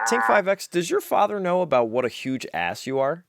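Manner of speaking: high, loud call, then indignant question; hammed-up outrage; exasperated scolding. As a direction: rebuke the heckler. Judge scolds the gadget.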